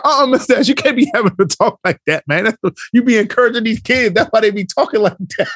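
scolding coach. Retold or imitated. Coach tells off teacher for encouraging kids, imitated scolding. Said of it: "She was like".

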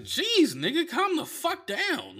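high-pitched, drawn-out exasperation; mock-protest at an uptight bartender; slow, high "take it easy" outburst; exasperated retort.

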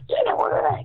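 very high, garbled creature squawk; mock a terrible trailer voice like an alien creature; worst trailer voice. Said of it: "the worst trailer voice ever".

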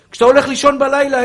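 loud, high fervent preacher's cry; impassioned sermon shout; preaching at full force. Acted. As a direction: rouse the crowd at the top of your voice.

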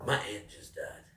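mock grief. Mimics the teller's fake grief.

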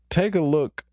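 mock God voice. God shows Job the universe.

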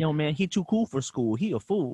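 lightly put-on rapper voice; mock rapper. Friend mocking the simple rhyme, mock rapper. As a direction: parody a clumsy rap boast.

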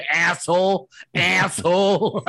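"asshole" with a broad American A. Shown as a demonstration. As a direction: draw out the A in "asshole" like an American diction drill. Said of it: "It's an American A".

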